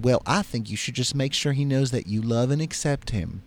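lightly voiced Southern bartender; gentle Mississippi advice; Mississippi accent. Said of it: "how's my Mississippi accent".

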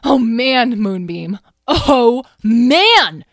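thrilled. Acted. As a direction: gush like a kid after a wild ride. Lyle gallops over, thrilled.

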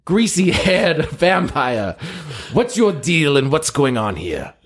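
slow grand heroic hail; booming Van Helsing address; hammy hero call. Acted. Hero hails vampire, hammy.

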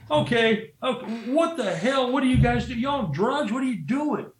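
high, incredulous with a laugh; half-laughing at the madness; imitating the boss laughing in disbelief. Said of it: "he's going".

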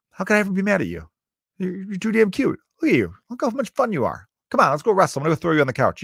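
high, playful gush; gushing doting dad. Retold or imitated. Dad to his cute three-year-old, playfully adoring. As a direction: melt over the kid, building to rowdy play.

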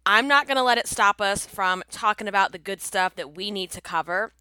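normal talking voice

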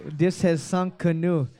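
mock French explorer accent; your best comic French accent. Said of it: "That's my best French accent".

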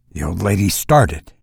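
ordinary delivery, nothing marked

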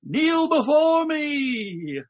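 high, slow booming devil command; slow theatrical villain menace. Retold or imitated. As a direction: command the audience like a hammy devil. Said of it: "looks into the screen ... and he goes".

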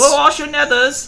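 very high, slow mock mother voice; creepy doting mother. Plugging the podcast to listeners as a smothering mother, very high mock voice. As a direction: coo it like an overbearing mom.

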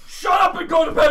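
high, loud irritated yell; annoyed shout. Retold or imitated. Roommate yelling at the sleepwalker to go back to bed, annoyed. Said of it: "And he's like".

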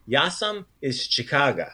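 Chicago ending in an "ah" sound; changed final vowel. Shown as a demonstration. Teacher showing the changed vowel at the end, final "ah" on Chicago. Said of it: "the vowel sound at the end".

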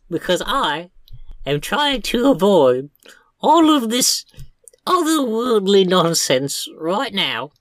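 a harried clerk fending off a pompous rat; Pip, flustered. Acted.

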